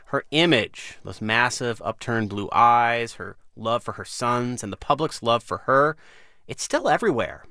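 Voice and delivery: measured radio host read, lively pitch swings; deliberate phrasing with pauses for emphasis; news-magazine intro read. Acted. Host reads scripted introduction.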